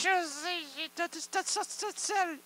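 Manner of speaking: high squeaky voice of the ladle; a talking ladle squeaking; squeaky louche voice. Acted.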